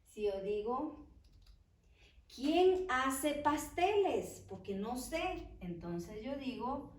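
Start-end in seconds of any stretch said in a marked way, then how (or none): 2.4-4.5 slowed right down, spelling it out for the class; slow dictation. Shown as a demonstration. Teacher giving the class a new example, slow and deliberate. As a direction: read it slowly like dictation.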